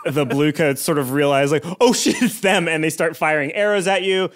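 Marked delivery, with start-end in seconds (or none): 1.8-2.7 higher, louder sudden alarm; startled guards. Acted. Blue coats spotting the fleeing van, alarmed blurt. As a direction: catch sight of them and blurt.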